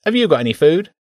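high, whiny rat begging for food; whining rat. Acted. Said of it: "the rat whined".

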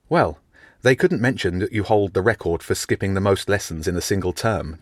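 chiding. Acted. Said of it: "James chided".

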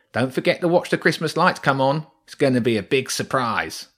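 hint at the surprise; teasing rat. Acted. Rat's parting taunt.

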